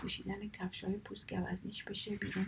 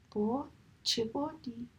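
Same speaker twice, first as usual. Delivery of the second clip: surprised; 4 semitones higher, 5 dB louder, slower than usual. Acted. Seagull doubts wind story.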